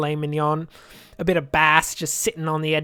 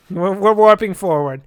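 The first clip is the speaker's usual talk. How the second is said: loud announcement; 8 dB louder than usual. Real, not acted. Announcing the warp.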